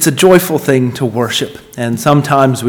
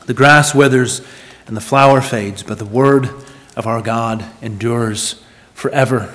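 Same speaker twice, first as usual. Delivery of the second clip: measured public Bible reading, phrase by phrase; solemn scripture reading. Acted. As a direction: read it out to the congregation with weighty emphasis and pauses. Reads scripture aloud to congregation.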